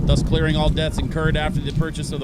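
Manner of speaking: official notice read aloud, brisk at first; formal letter reading. Acted.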